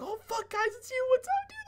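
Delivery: very high squealed greeting; losing it. Retold or imitated. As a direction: freak out at finally seeing your friends. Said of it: "we were, like, losing our shit".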